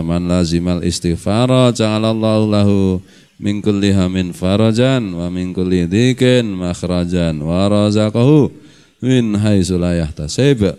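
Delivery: slow, measured Arabic recitation; drawn-out reading of sacred Arabic; hadith recitation. Real, not acted. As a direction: recite it slowly, phrase by phrase.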